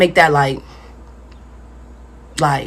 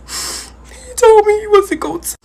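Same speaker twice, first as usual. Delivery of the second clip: high, slow, stunned protest; outraged disbelief; 11 semitones higher, slower than usual. Retold or imitated. To the principal who told, high shocked protest. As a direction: cry out in betrayed shock, voice jumping up.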